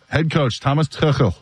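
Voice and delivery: Tuchel with a German ch sound; German pronunciation. Shown as a demonstration. Host showing how he says the coach's name, German Tuchel. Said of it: "is how I'm gonna say it with my, uh, German background".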